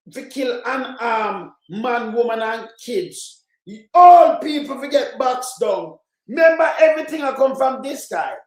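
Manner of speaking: outraged shout. Real, not acted.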